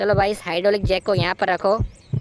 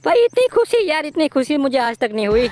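jubilant; 8 semitones higher than usual. Real, not acted. Gamer celebrating rescuing Bulli, high jubilant cry. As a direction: celebrate the win. Rescued friend, game won.

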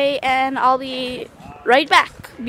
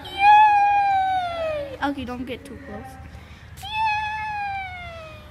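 much higher squealing cheer; excited squeal; 13 semitones higher, much slower than usual. Real, not acted. Girl cheering that her dog will be famous, high squeal. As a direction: squeal with delight.

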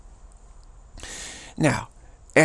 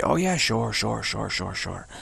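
dismissive; 5 dB quieter than usual. Retold or imitated. Reptilians humoring Eve.

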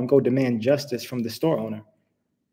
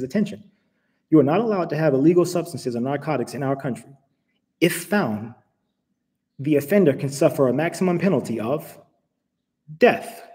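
automated announcement voice. Retold or imitated. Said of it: "this is the automated voice".

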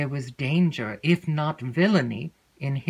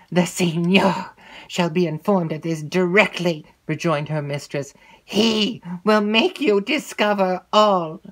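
threatening; 3 semitones higher, 4 dB louder than usual. Acted. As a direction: warn her coldly. Mistress threatens.

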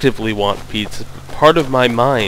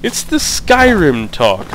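higher, slow put-on Skyrim accent; Skyrim talk accent; 6 semitones higher, slower than usual. Player naming his odd habit, in his Skyrim talk accent. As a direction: stretch it out in a mock Skyrim accent. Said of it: "not really sure what accent it is".

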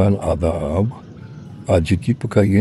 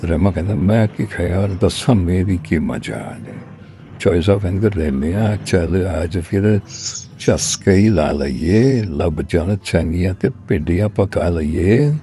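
poem recital. Acted. Reciting a cook-and-master food poem to an audience, poem recital. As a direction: recite it in measured couplets, landing on each rhyme.

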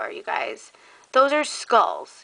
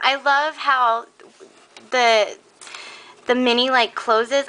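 halting, slowed start with restarts; too excited to get the words out; tripping over the sentence in excitement; stumbling over words; 2 semitones higher than usual. Real, not acted.

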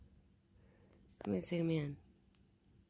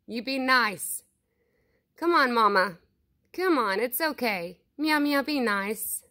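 coaxing pet call; 7 dB louder than usual. Real, not acted. Vlogger calling Mama and hushing the cats, coaxing loud call. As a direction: coax the shy animal closer, calling out. Calling a wild animal to food.

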